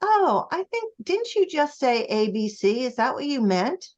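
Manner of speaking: high, lilting opener into a gentle question; feigned innocent sweet query. Acted. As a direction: ask it sweetly, as if not to kill the mood. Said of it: "gonna sweetly say".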